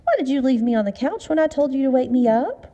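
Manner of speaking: teasing, triumphant and high; gloating. Acted. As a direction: rub it in playfully. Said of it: "and gloated".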